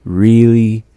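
Really said loud and high, stretched for emphasis; Really, loud and emphatic; stressed really. Shown as a demonstration. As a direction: punch Really to mean too much. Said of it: "it expresses something being really too much".

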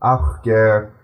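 slow, careful reading in an even flow; steady, unhurried recital for the class to follow; slow read-aloud. Acted. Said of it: "I'm gonna read it a bit slower".

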